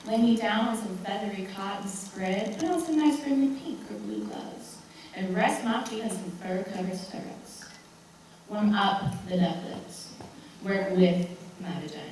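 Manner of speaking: soft, tender wishing; gently coaxing, softly spoken; soothing daydream. Acted. Imagines a gentle, comfortable exam.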